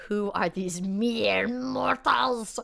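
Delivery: a slow, lordly cat looking down on mortals; haughty cat voice. Pretend. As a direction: voice the cat as a scornful queen, slowly. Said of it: "as if she's saying".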